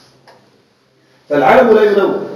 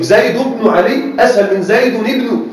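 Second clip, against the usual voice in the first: slow demo; slower than usual. Shown as a demonstration. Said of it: "تنوين يعطي ثقلا".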